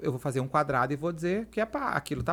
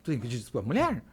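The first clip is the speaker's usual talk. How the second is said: low, slightly softer quote of the wife; lightly voiced wife; 5 semitones lower, 4 dB quieter, faster than usual. Wife asking the speaker whether an apology is due, lightly imitated. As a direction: imitate the wife's low-pitched questioning. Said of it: "e dela".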